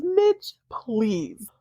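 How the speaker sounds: a hammed-up pleading cry of Mitch; imitating a wife's whiny plea to her husband; mock plea. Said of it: "She literally says".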